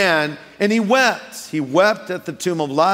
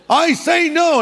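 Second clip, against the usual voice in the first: high, louder wailing no; mock girl crying; 11 semitones higher, 5 dB louder than usual. Girl stopping a guy with tears, high wailing no. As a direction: play the tearful girl. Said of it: "we'll say".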